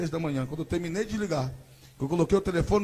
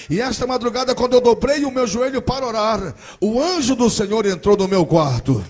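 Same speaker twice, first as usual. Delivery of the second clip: building from loud to a slow, high, full-force shout; prophesy as if heaven speaks through you; louder and louder, ending in a slow, high shouted prophecy; prophetic shout; 6 semitones higher, 15 dB louder, slower than usual. Retold or imitated. Cousin's prophecy, rising to shouting.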